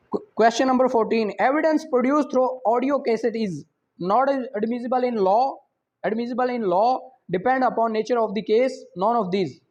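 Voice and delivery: slow, careful reading of an exam question; measured quiz reading. Acted. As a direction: read each option out deliberately. Reads exam question slowly.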